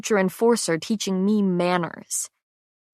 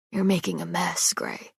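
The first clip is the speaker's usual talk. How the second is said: muttering; 5 dB quieter than usual. A narrator's reading.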